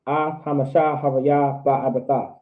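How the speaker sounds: measured, flowing from word to word; fluent teaching demonstration, falling at the end; slow but fluent. Shown as a demonstration. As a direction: pace it evenly without long gaps. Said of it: "I'm still saying it slow, though".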